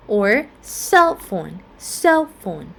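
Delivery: "cell phone" stressed on CELL. Shown as a demonstration. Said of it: "stress on the first syllable".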